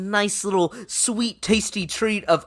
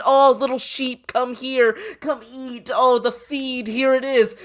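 a touch higher, lightly voiced sweet coaxing; mock coaxing shepherd; 6 semitones higher, slower than usual. Host voicing ESPN coaxing fans like sheep, mildly higher.

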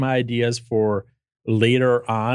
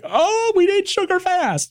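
high, slow and panicked; slower than usual. Retold or imitated. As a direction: squeak it out in alarm. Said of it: "you guys would have been like".

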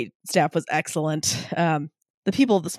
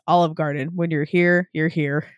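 wet voice. Acted. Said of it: "in a wet voice".

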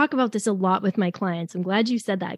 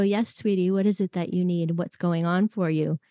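gentle soothing; 4 semitones lower, 4 dB quieter than usual. Retold or imitated. Parent kneeling to comfort child.

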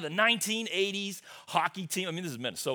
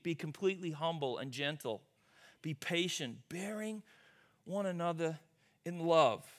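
scripture reading. Acted. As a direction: read it tenderly, word by word. Reads Ephesians again.

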